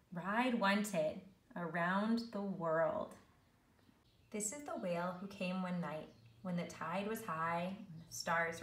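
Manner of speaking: measured, rhythmic picture-book reading; story narration. A narrator's reading. Teacher reads snail story to learners, storytelling. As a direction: read the rhyme to young children, savouring it.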